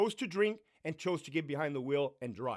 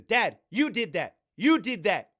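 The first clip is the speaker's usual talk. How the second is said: put-on accusing child; 3 semitones higher, 5 dB louder than usual. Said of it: "My daughter comes into the room and says".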